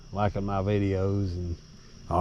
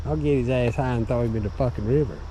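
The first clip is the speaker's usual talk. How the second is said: fast excited threat; 5 semitones higher, 4 dB louder, faster than usual. Real, not acted. Drunk threat at beaver.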